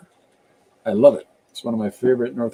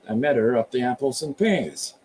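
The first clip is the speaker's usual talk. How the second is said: put-on typical Cockney accent; lightly put-on Cockney rhyming slang; Michael Caine. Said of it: "he's typical Cockney when he's in the Austin Powers movies".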